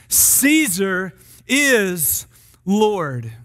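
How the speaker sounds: measured proclamation, spaced out phrase by phrase; gospel declaration. Acted. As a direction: proclaim it to a gathered crowd. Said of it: "a gospel declaration often sounded something like".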